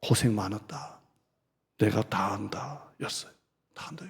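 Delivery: hushed tender words; gentle divine voice. Acted. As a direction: speak it as God's quiet comfort. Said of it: "음성을 들려주실 때는 항상 이것이었어요".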